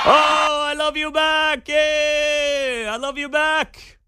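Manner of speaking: hammed-up Latina accent, shouted out in a high voice; mock Latina accent. Host mocking Harris's clip for listeners, hammed-up Latina accent. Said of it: "was the Latina accent".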